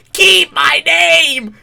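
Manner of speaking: high, drawn-out bellow; furious shout. Retold or imitated. Cartoon parody of the slap outburst, furious drawn-out shout. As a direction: yell it full force, stretching every word. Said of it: "And then you just hear a".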